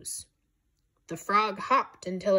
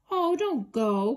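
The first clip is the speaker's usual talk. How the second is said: pleading cry; 5 semitones higher than usual. Acted. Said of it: "cried Fawn".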